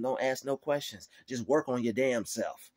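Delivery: firm command at normal pace; God's stern word. Retold or imitated. God ordering complainers to work, firm. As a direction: tell them straight. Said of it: "God's telling them".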